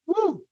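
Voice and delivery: short high-pitched "woo"; quick falling whoop of excitement; celebratory whoop. Real, not acted. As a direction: let out a little high whoop. Celebrates the advice just given.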